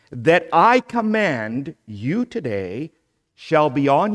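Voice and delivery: booming preacher reading the Shema; emphatic scripture reading. Shown as a demonstration. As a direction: proclaim each command as if carving it in stone. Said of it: "Did you hear my emphasis?".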